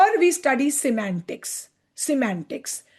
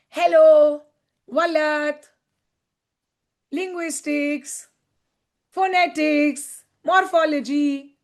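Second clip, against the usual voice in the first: each word alone, from "Hello" to "morphology", long pauses between; disconnected word list, one item at a time; isolated words. Shown as a demonstration. Teacher showing words alone fail, each word separated by pauses. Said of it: "Words alone cannot be enough".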